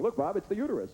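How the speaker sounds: high, eager doctor voice; high-pitched enthusiastic surgeon; excited doctor. Retold or imitated. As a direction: proudly show off the uterus. Doctor voiced showing organs.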